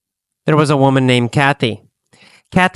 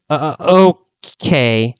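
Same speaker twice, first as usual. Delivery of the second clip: hesitant. Shown as a demonstration. Teacher shows Kathy's reluctant answer, hesitant. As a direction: stall before agreeing.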